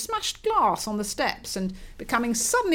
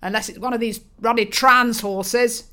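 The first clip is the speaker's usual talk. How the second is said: 1 pompous father; 2 semitones higher, 5 dB louder than usual. Acted. Father voiced in story.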